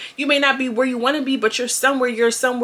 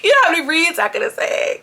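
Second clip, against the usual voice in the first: high, giggly repeat of the line; laughing catchphrase; 8 semitones higher, 3 dB louder than usual. Retold or imitated. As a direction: crack up while saying it. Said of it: "That's my new thing".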